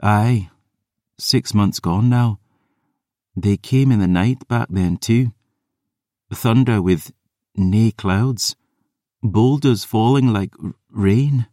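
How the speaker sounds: haunted Scots maid; Ossian brogue. Acted. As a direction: murmur it in a Scots lilt. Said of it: "murmuring in her Ossian brogue".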